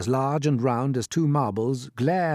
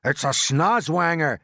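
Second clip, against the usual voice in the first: loud, slow, raised shout; alarmed cry; 6 semitones higher, 6 dB louder, slower than usual. A narrator's reading. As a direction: cry it out, stretching the name. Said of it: "cried the chief of police".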